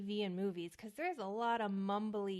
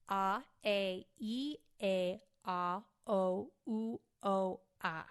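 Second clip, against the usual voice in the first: loud, overemphasized vowels, mouth working hard; vocal warm-up syllables; 3 dB louder, slower than usual. Shown as a demonstration. Actor demonstrating her warm-up to listeners, loud overemphasized vowels. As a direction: belt out each vowel with big exaggerated articulation. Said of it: "So it goes".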